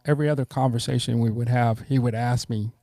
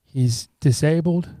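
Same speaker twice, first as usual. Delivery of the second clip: imitating others; 2 semitones higher, slower than usual. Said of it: "They would say".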